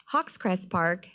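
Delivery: usual speaking voice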